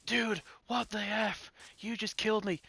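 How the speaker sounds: high, slow mocking whine; mock whiny voice. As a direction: imitate him whining like a sulky kid. Mocking the killed player's whining.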